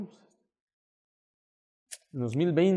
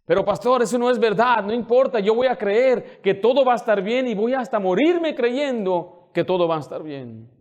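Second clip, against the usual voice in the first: raised, emphatic preacher's voice; impassioned preaching; 5 semitones higher, 7 dB louder than usual. Real, not acted. Pastor vowing to his flock that all will be well, impassioned preaching. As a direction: preach it with full conviction.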